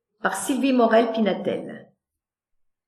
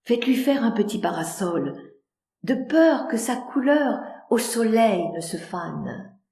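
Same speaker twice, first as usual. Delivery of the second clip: tender; 4 dB quieter than usual. Acted.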